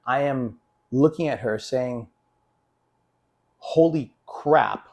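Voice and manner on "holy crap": slow, drawn-out stunned "Holy crap". Retold or imitated. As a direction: let "Holy crap" hang slowly in disbelief. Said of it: "I said something much heavier than that".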